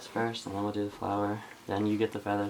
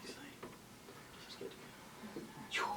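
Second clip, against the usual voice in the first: giggly prank whisper; 8 semitones lower, 21 dB quieter, much slower than usual. Real, not acted. Sneaking up on sleeping mom.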